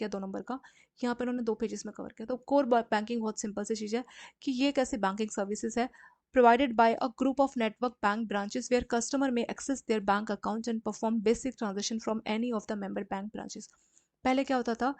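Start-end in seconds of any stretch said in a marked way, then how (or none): 6.3-13.7 reading the English definition out very slowly for notes; teacher dictates the definition to students, slow and even; slow dictation reading. Shown as a demonstration. To students copying notes, a slow dictation read.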